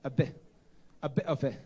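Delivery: light put-on British accent. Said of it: "you've got a bit of British accent".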